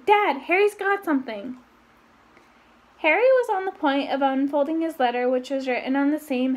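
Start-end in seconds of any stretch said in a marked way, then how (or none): 0.1-1.6 sudden call. A narrator's reading. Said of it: "said Dudley suddenly".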